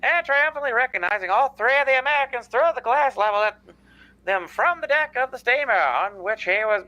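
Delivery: put-on old-time radio narrator voice; 1940s radio announcer. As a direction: read it like a vintage newsreel. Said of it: "I am doing the nineteen forties radio guy".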